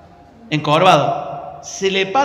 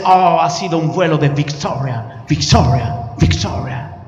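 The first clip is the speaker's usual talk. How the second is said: lower, drawn-out catchphrase, fading; gringo preacher voice; 3 semitones lower than usual. Retold or imitated. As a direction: let victoria echo away. (gringo que repite victoria, cada vez más bajo)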